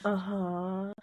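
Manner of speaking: soft, put-on dazed uh-huh; feeble agreement. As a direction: humor him weakly, barely following. Congested patient nodding along, unable to hear.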